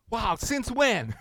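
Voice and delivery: high, slow, stretched-out wow; slow disbelieving question; mock disbelief. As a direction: play the astonished couple. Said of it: "look at us in total disbelief".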